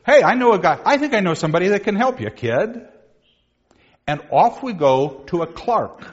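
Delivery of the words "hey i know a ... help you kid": helpful buddy. Acted. Friend offering the despairing squire a contact, fast and eager. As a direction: sell it like a fixer. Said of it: "friend retells reply".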